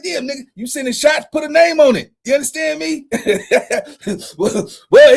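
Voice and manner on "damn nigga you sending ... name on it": teasing shout from the sidelines; mock call-out shout. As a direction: call him out like you're hyping a fight. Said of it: "I'm like".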